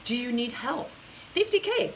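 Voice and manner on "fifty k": high, loud call of the number; excited reveal. Real, not acted. Coach to viewer Megan, excited number callout. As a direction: announce it like a win.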